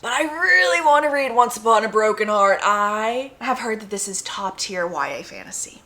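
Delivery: ordinary talk, nothing marked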